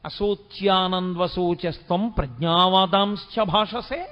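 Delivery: slow, weighty scolding of a guru; stern rebuke. Retold or imitated. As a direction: chide the pupil firmly. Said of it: "వాత పెట్టి మాట్లాడాడు".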